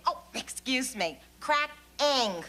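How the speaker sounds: correcting to 'cracking' in a careful, proper way; elocuted correction. Shown as a demonstration. She shows off her new elocution to friends, correcting 'cracking'. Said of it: "Can I elocute or what".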